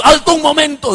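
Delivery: pastor's sudden call to halt; acted calling out. Pastor stops the departing couple, calling out.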